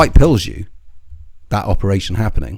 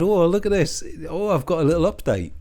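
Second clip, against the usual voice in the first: mock excitement; 8 semitones higher than usual. Mocking the grifter's opener.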